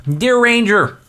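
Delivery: character voice attempt. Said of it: "we gotta get into character here".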